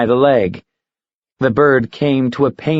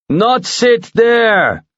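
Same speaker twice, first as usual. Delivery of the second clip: higher, slow stubborn bird; eagle refusing; 10 semitones higher, much slower than usual. Acted. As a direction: plant his feet and refuse. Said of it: "the eagle countered".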